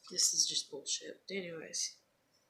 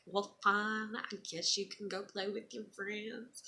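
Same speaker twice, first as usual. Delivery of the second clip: mock hurt, pitched up; playful teasing; 2 semitones higher than usual. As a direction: tease the kid with fake disappointment. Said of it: "I'd kinda tease her and be like".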